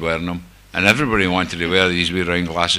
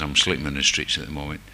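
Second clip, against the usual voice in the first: most humble voice; 4 semitones lower, 4 dB quieter than usual. Retold or imitated. Homeless man asking the secretary for help, humble voice. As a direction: lower and softer, meek and humble. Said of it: "I put on my most humble voice".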